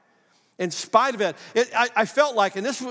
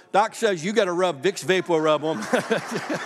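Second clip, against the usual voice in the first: slow, breaking into a laugh; amused retelling. Retold or imitated. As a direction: relay doctor's orders, starting to laugh. Laughs telling wife the remedy.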